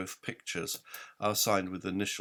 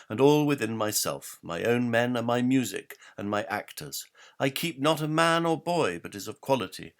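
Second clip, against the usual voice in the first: higher, louder, swaggering nobleman reciting his riches; boastful lord; 5 semitones higher, 5 dB louder than usual. Acted. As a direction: show off every pastime like a vain lord. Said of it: "Lord Litoy responds, not unboastfully".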